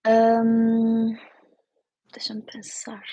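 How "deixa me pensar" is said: whispered to herself. Real, not acted. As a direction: hush it while thinking. Thinking aloud, hushed.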